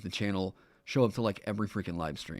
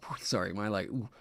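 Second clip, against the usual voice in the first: breathless after the excitement; out of breath, puffing between words; 2 semitones lower, 7 dB quieter than usual. Real, not acted. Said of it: "catching my breath".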